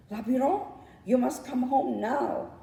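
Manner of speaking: high, urgent bird's call; a little bird crying out with bad news; cried out by the bird. A narrator's reading. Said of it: "cried the bird".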